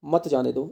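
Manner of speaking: "मत जाने दो" as one group after a comma stop; pause before मत. Shown as a demonstration. Teacher showing the comma's effect, "मत जाने दो" grouped together. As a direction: keep "मत जाने दो" together, apart from what came before. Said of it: "कोमा यहाँ लगा हुआ है".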